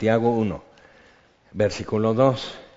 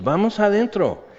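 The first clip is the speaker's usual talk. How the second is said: retold shout; 8 semitones higher than usual. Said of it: "nos tuvimos que gritar".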